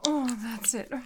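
high, breaking whispered pleas; trembling whisper. Acted. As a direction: let the voice shake and climb. Whispered climax, rising pleas.

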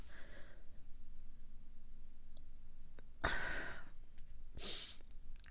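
long, soft, airy sigh. Acted. Sighing in the middle of a quarrel with the ex, weary. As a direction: let out a drawn-out, quiet breath.

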